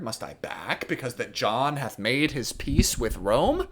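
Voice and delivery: rising Shakespearean indignation, key words punched; indignant prince. Acted. French prince challenging the cardinal over Rome's peace, indignant. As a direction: challenge him, swinging between controlled and heated. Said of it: "he's really furious".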